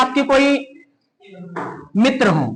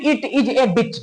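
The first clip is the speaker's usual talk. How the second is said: Indian English; much slower than usual. Shown as a demonstration. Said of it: "हम लोग क्या कहते हैं".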